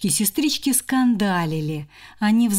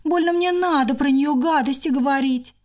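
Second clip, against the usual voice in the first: higher, haughty; proud scoff; 6 semitones higher than usual. Acted. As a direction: turn away proudly. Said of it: "хмыкнула и отвернулась гордо".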